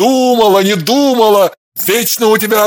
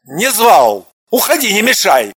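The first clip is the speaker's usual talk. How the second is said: louder sharp brush-off; curt dismissal; 3 semitones higher, 4 dB louder than usual. A narrator's reading. Husband brushing off his frightened wife, curt angry tone. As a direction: wave her off harshly.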